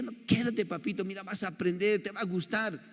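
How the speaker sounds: put-on sweet-talking the kid into staying, quietly; soft coaxing. Big brother coaxing his crying little brother at school, softly.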